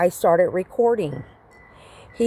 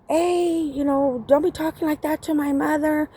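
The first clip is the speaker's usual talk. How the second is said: higher, retold telling-off; daughter's scolding; 6 semitones higher than usual. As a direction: imitate a daughter defending her mother. Voices daughter scolding the man.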